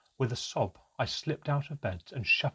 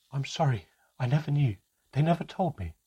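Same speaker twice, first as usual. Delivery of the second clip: tearful apology; 4 semitones higher, 4 dB louder than usual. Acted. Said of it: "My mother was sobbing now".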